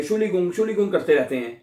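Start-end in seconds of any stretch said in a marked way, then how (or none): 0.0-0.5 "शुलिगुंग" with a ng ending, as learners misread it; common mispronunciation. Retold or imitated. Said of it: "इसको हम सही पढ़ते नहीं है". 0.5-0.9 "शुलिगुंग" with a ng ending, as learners misread it; common mispronunciation. Retold or imitated. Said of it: "इसको हम सही पढ़ते नहीं है".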